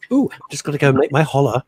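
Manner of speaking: lightly put-on voice of his friend; mock impression of co-host. Teasing his co-host by copying his voice, lightly put-on. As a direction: tease him by copying his voice. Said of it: "I don't talk like that".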